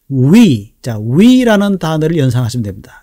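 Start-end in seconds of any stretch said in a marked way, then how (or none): 0.1-0.7 "위" said rounded and stretched as a model for R; w-like R start. Shown as a demonstration. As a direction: round the lips into a drawn "위". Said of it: "리을 발음을 하려고 하는 척하지만".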